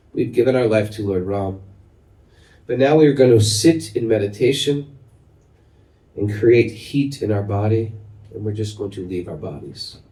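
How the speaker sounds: put-on a tired old teacher taking leave; old guru. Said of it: "They said".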